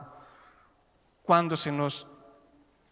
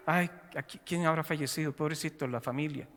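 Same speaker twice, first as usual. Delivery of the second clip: much quieter, tender murmur of pity; mock pity; 6 dB quieter than usual. Preacher mimicking a mourner at a passing funeral, hushed and pitying. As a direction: fade it down as if near tears. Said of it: "No nos ponemos a llorar para decir".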